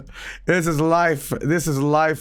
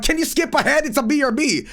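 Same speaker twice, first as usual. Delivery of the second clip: much higher, frantic protest; high indignant objection; exasperated high protest; 10 semitones higher than usual. Retold or imitated. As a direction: squeak it out in frustration. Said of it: "I'm like".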